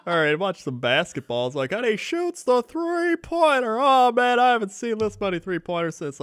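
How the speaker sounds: basketball commentator. Retold or imitated. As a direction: call the shot like a commentator.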